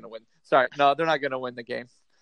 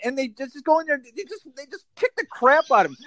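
angry rant; 4 semitones higher than usual. Real, not acted. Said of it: "the rant I was looking for".

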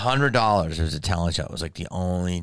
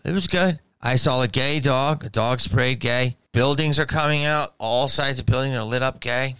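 mock excited; 6 semitones higher than usual. Mocking Pride Month everything.

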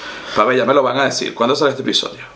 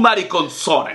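mock Italian word; slower than usual. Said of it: "inventaba palabras como en italiano".

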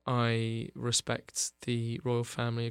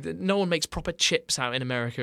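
mock moaning Brit; 3 semitones higher than usual. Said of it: "you just sort of moan".

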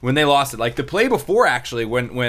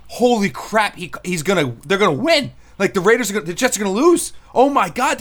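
much higher and louder, breathless disbelief; disbelieving excitement; 10 semitones higher, 5 dB louder than usual. Retold or imitated. Reporters stunned as the Jets lose, frantic disbelief. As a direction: blurt it like you can't believe the ending. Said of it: "everyone in the press was like".

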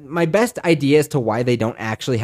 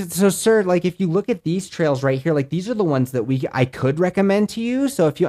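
imitating the ranger; 5 semitones higher than usual. Ranger pointing to map, retold.

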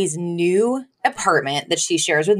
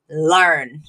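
abruptly composed; 5 semitones lower than usual. Retold or imitated. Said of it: "stops dead in her tracks".

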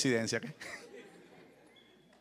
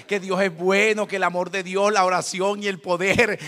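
louder, slow, weighty preaching; preaching emphasis; 8 dB louder than usual. Real, not acted. Pastor tells the congregation about God's power, loud and slow. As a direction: drive each phrase home. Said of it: "preaching emphasis".

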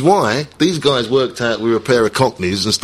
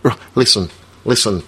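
put-on mild Scouse accent; 2 semitones lower than usual. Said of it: "I'm doing a Scouse accent".

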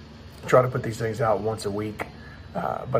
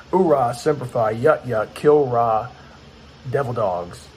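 barked Marine battle cries; loud gung-ho soldier; 5 dB louder, slower than usual. Real, not acted. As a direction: shout it like a drill field.

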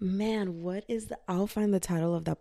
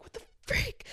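very high, thin mock alarm; retold panic; 4 dB quieter than usual. Podcaster retelling her alarm at the warning, mock panic. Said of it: "I started panicking 'cause I was like".

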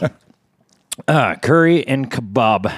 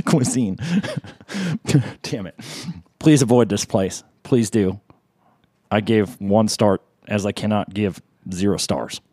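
angry reviewer. Acted. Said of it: "You're gonna make me break character".

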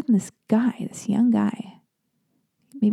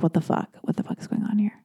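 muttered outrage; 5 dB quieter, faster than usual. Retold or imitated. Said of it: "I'm like".

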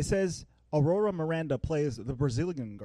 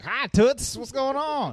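imitating Donald; 8 semitones higher, 4 dB louder, slower than usual. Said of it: "He's like".

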